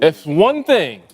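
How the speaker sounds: slow, drawn-out warning; retold menacing warning; dangerous tone. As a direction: stretch it out like a veiled threat. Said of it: "It's getting dangerous over there".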